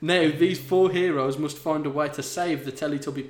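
steady read-aloud delivery; story narration. A narrator's reading. Reader telling of Snape's bond with aliens, steady narration. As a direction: narrate the tale evenly.

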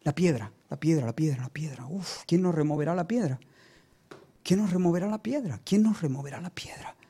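soft, half-whispered fretting; worried murmur. Acted. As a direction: fret under your breath, imitating worried women. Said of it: "Ellas habían estado preocupadas".

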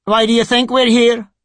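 high-pitched, sneering sycophant; almost sneer it at him; near sneer. A narrator's reading. Sycophant Craven scolding Cleric Reith, almost sneering. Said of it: "almost sneered".

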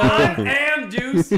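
big slow call into the mic; loud slow announcement. Real, not acted. Friend booming his name into the mic, laughing. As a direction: boom it out, laughing. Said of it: "closer to the fucking mic".

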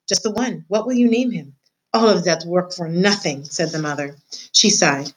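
measured read-aloud voice for a class; story narration. A narrator's reading. Teacher reading a chapter aloud to her class, storybook narration.

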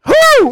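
very loud, high "whoo"; real burst of approval; delighted whoop. Real, not acted. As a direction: whoop at a great comeback. Host delighted by the comeback.

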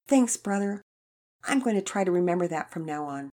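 lightly voiced young girl, grateful; a girl thanking her big brother. Children's story read aloud, girl figure.

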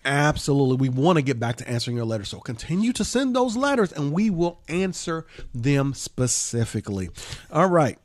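fast, pumped-up hyper delivery; buzzing like after an energy drink; wired. Real, not acted. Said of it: "you sound a little wired".

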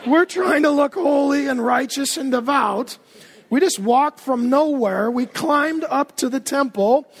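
impatient crowd calling. Retold or imitated. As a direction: call out for the late priest. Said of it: "they're still outside like".

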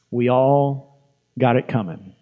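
slow and deliberate, stretching "all"; slow, weighty repeat. Real, not acted. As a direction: let "We all" hang before finishing. Preacher repeats the line to congregation.

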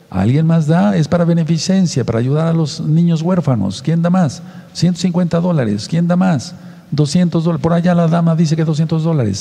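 lightly voiced auction caller; auctioneer. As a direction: sell it off like a charity auctioneer. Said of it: "vamos a subastar esto".

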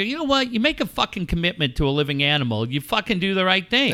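re-enacted scolding, starting high; retold pissed-off lecture. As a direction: lay down the law as you retell it. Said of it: "I'm just pissed".

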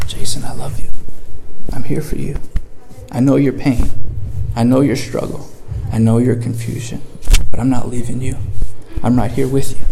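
sit beside him and comfort him gently; gentle comfort. Retold or imitated. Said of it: "He comes in gently".

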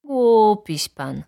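slow, loud, drawn-out insult; offended, stretched-out comeback; indignant retort. A narrator's reading. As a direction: throw the insult back slowly. Neighbours trade insults in court.

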